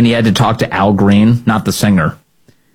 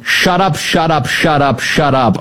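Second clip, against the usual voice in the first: hammed-up repeated yell, pitched up and falling; mock yelling; 5 semitones higher, slower than usual. Host mimicking congressman told about racism, mock yelling. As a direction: rattle it off as an imitation yell. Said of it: "Al Green just starts yelling".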